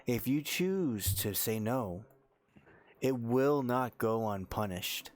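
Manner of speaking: slow, deliberate villain threat; slow menacing threat. Acted. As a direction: draw out the threat coldly.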